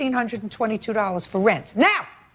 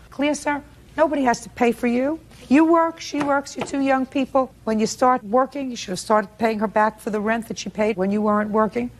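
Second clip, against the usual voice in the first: raised, high-pitched lecturing; stern scolding; 4 semitones higher than usual. Real, not acted. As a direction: scold him like a fed-up judge. Judge scolds young tenant.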